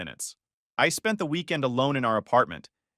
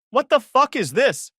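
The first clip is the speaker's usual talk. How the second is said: "What the fuck is this?" hurled much higher and louder; the accusing wife's enraged outburst; spat in fury; 12 semitones higher, 7 dB louder than usual. Acted. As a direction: spit it out like a furious wife. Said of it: "she spat".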